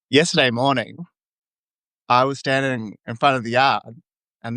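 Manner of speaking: bad Australian accent attempt. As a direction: put on a broad Aussie accent. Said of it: "your Australian accent is really bad".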